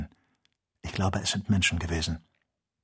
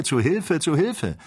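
imitated cry for help; 8 semitones higher, 3 dB louder than usual. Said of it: "einen angstvollen Schrei".

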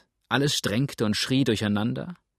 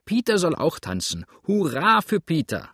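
high, loud crowd cheering; excited cheer; 6 semitones higher, 4 dB louder than usual. A narrator's reading. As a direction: egg Peter on to dance.

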